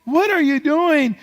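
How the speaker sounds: high, slow, full-force holler; commanding shout. Retold or imitated. Teen driving the devil out of his house, shouting slowly. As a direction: order the devil out, stretching each word loud. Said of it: "I began to shout".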